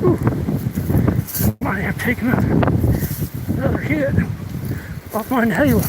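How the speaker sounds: breathless, halting phrases; winded and wheezy; out of breath. Real, not acted. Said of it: "Boy, that winded me".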